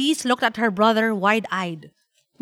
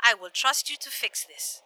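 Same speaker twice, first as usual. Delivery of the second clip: tag; 5 dB quieter than usual. Acted. Grandmother gives in on phone.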